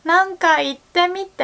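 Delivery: high, loud, excited mock question; excited Japanese friend. Japanese friend excitedly asking the teacher to speak English. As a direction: imitate a thrilled friend demanding a sample. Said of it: "usually people would say".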